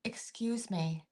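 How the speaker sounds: soft slow unvoiced whisper; a quiet whispered interruption; whispered excuse me. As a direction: whisper it politely, slowly. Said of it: "And she goes".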